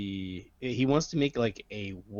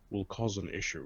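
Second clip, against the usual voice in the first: quieter hushed whisper; 5 dB quieter than usual. Voicing a character who leans to another character and whispers: whispering.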